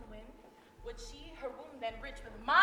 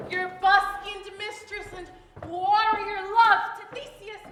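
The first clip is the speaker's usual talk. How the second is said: hammy stage actor; 6 dB louder than usual. Acted. Titania accuses Oberon.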